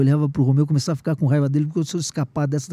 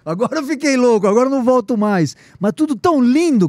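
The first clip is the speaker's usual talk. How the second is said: higher, louder cry of amazement; overwhelmed awe; 9 semitones higher, 7 dB louder than usual. Retold or imitated. Seeing São Jorge on horseback in the church, excited cry. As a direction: shout it as the vision floods you. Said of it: "Eu falei".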